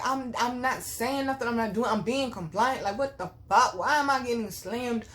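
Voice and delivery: imitating yourself protesting in disbelief; retold baffled protest. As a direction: argue your case, exasperated. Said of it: "I'm like".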